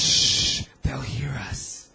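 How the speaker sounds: slow hushed whisper; worried whisper. Real, not acted. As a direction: hush them so nobody hears. Hushing so neighbours won't hear.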